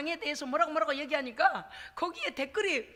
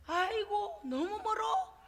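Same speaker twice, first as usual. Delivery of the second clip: whiny excuse; 3 semitones higher, 4 dB quieter than usual. Retold or imitated. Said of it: "이렇게 하는".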